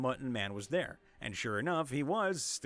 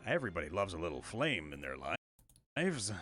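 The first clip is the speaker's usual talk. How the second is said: low and sinister; 9 semitones lower than usual. Acted. Menacing low reading.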